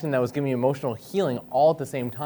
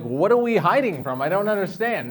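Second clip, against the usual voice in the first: put-on confused child; 8 semitones higher, 6 dB louder than usual. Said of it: "And I'm like".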